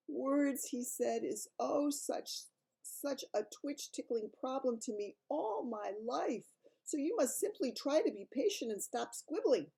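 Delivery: a big kindly giant trying his best; friendly giant voice. Acted. BFG voiced in read story.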